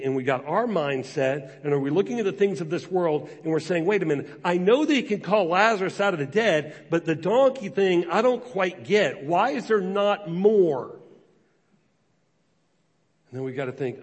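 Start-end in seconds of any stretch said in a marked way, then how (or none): 3.9-11.0 mock puzzled objection. Voicing a doubting believer.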